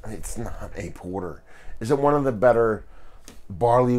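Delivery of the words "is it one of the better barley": louder and quicker restart. Real, not acted. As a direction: push the question out faster. Restarts the question with more push.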